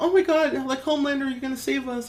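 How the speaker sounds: put-on very high, shrill, frantic, pleading little-girl scream. Retelling a scene on a plane, voicing a little girl to homelander, imitating a screaming little girl. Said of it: "This little girl is like screaming".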